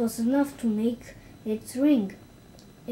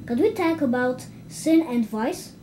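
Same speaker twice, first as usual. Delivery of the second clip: pleading; 4 dB louder than usual. Acted. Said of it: "pleaded Lida Lacy".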